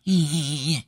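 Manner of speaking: a short coy "eh", lightly copied; imitated little sound. Imitating the woman's flirty little sound again. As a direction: echo her little noise. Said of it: "like that, like that sound".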